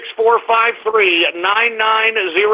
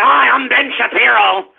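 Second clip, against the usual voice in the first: mock Ben Shapiro.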